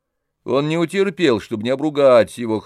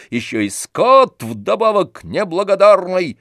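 higher, louder, slow berating rant; angry tirade; 6 semitones higher, 4 dB louder than usual. A narrator's reading. Tarantyev berates ungrateful Oblomov, slow and furious. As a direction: pound him with every accusation.

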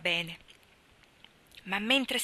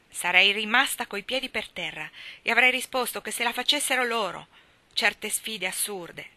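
louder, higher outburst, slowing at the end; snapping retort; 3 semitones higher, 6 dB louder than usual. A narrator's reading. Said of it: "sbottò la donna". (Marilla sbotta con Anna, secca e decisa)

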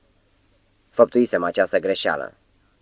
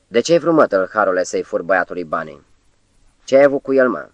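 yelling; faster than usual. Acted. Spelb yells at the wounded thief: accusing yell. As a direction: shout him down as a thief. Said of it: "Spelbul întreba și țipa".

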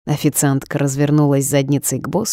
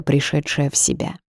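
ordinary delivery

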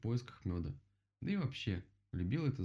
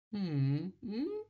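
high humming turtle mumble; sleepy mumble; 11 semitones higher, 4 dB louder than usual. A narrator's reading. Kicked turtle mumbles without waking, sleepy hum. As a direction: hum wordlessly as if still asleep. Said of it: "тихонько пробормотала черепаха, не просыпаясь".

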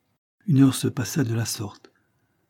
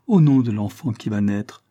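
louder, anguished plea; anguished cry; 5 dB louder than usual. Acted. Isabel begging Levison to stay, anguished cry. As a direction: cry out in anguish for the unborn child. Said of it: "cria-t-elle avec angoisse".

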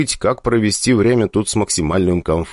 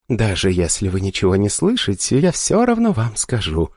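sultry voice. Acted. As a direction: purr it seductively. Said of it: "томным голосом проговорила".

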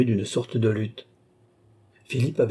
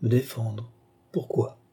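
soft, mild questioning; quiet, sweet-tempered reply; gentle; 3 dB quieter than usual. Acted. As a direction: answer gently, without any fight. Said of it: "répondit d'une voix pleine de douceur".

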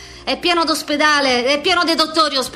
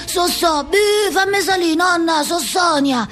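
calling out; much slower than usual. Retold or imitated. Calling grandma at intercom.

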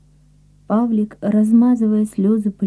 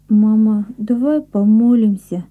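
sobbing; 3 semitones higher, 3 dB louder than usual. Acted. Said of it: "всхлипнул Павлик".

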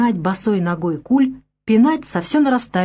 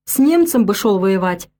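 grumbling rebuke; 6 semitones higher, 3 dB louder than usual. A narrator's reading. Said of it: "ворчал он".

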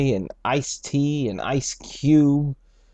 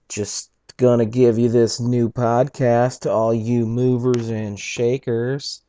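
loud, slick podcast-host pitch; mock radio host; 6 dB louder than usual. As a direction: sell it like a corny radio DJ. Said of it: "Could you imagine if I really talked like that".

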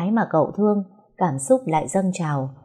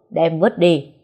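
curt loud order; 4 dB louder, slower than usual. Acted. Master orders cloth thrown.

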